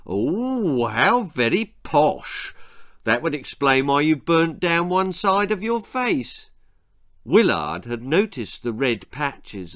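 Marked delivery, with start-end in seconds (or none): 0.0-6.5 mother's voice. Acted. Mother speaking in the story.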